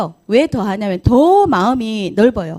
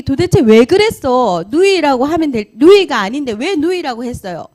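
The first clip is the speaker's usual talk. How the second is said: angry demand; 3 semitones higher, 5 dB louder than usual. Acted. The king confronting Abraham about the lie, louder and indignant. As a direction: demand an answer, offended.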